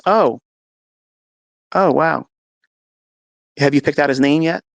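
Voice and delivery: high, loud delighted gasp; surprised nurse. Retold or imitated. Nurse seeing the baby on the sonogram. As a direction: she just saw it's a boy.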